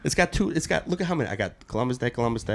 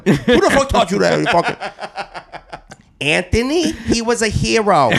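mock angry father; 10 semitones higher, 4 dB louder than usual. Tony answering his son.

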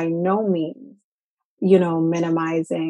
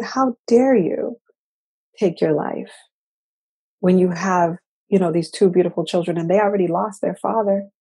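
angry reproach. Retold or imitated. Scolding a friend who took her life, angry reproach. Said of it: "I was angry with her".

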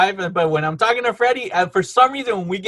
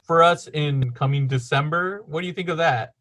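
polite, measured meeting voice; business client. Acted. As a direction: make a courteous pitch as the client. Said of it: "Yeah, they're like".

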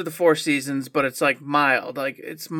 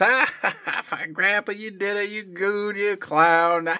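high, forced ha-ha at Grandpa's joke; hammed-up laugh, pitch up, for an unfunny joke; laughing along with grandpa's bad joke; fake polite laugh; 4 semitones higher than usual. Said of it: "So I'm laughing".

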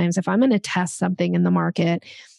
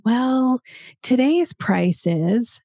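slow hedge with a lifted 'well'; hesitant qualifier; 4 semitones higher, much slower than usual. Shown as a demonstration. Coach showing the wrong way to give prices, hesitant. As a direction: stall before naming the figure. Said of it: "Instead of saying".

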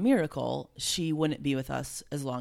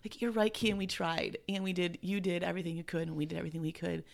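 emotional; 2 semitones higher than usual. Real, not acted. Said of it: "it's emotional".

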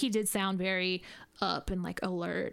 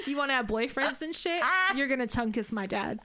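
giggling fake lecture; mock parent lecture while laughing; laughing mock scolding; 3 semitones higher than usual. Mock scolding her daughter.

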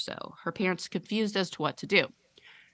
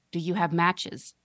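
put-on slow monotone creepy little girl; flat, eerie, slow question; creepy monotone child. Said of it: "monotone and deeply".

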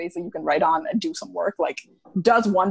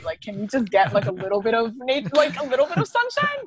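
mock pleading; 3 semitones higher than usual. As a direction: beg the sky, half joking. Pleading with nature for sunshine.

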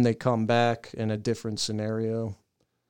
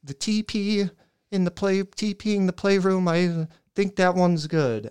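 nervous; 7 semitones higher, 3 dB louder than usual. Retold or imitated. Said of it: "I'm shaking physically".

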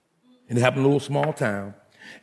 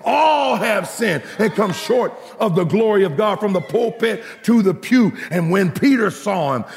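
ringing, rhythmic sermon climax; full-force preaching; 6 semitones higher than usual. Acted. Preacher proclaiming God's holiness to the congregation, full-force preaching. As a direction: drive each phrase home with stretched key words.

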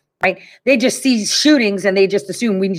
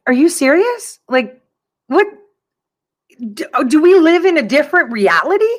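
higher, baffled retort; incredulous; 6 semitones higher than usual. Retold or imitated. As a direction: question them in acted disbelief. Retelling disbelief at others' reaction.

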